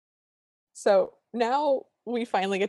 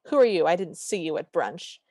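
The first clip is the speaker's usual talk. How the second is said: accusatory. Retold or imitated. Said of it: "very accusatorily and goes".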